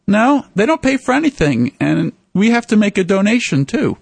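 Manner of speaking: retold emphatic no; emphatic correction. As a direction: set the man straight firmly. Sherwood insists nobody pays for them.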